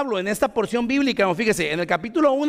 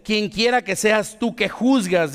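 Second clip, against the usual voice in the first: slow emphatic quote; slower than usual. Retold or imitated. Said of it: "dice así, ¿verdad?".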